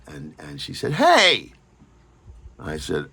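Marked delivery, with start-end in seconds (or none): 0.9-1.5 playful protest. Retold or imitated.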